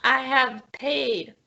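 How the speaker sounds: slow, measured insistence; deliberate repeat. Acted. Customer answering the guard's "What's that?", slow and deliberate. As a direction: spell it out slowly for the guard.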